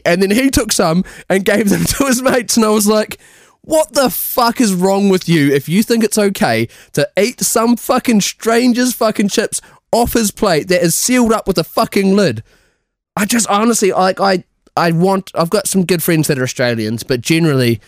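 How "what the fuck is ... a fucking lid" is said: indignant rant. Retold or imitated. Retold outburst at chip thieves.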